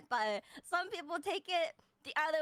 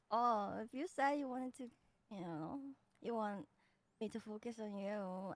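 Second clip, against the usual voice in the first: softer, lower, teasing murmur; soft flirty voice; 3 semitones lower, 6 dB quieter than usual. Retold or imitated. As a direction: drop it low and soft, flirting. Demonstrates their earlier flirty voice.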